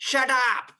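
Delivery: a quick mock yell of shut up; mock shout. Lomov yelling at Natalia to stop talking, mild mock shout. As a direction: snap it at her like a quarrel. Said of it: "Then he shouts".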